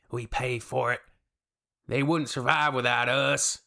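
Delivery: mock American ranting about Europeans; a touch of caricature American patriot; lightly voiced American commenter. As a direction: play a dismissive American know-it-all, lightly.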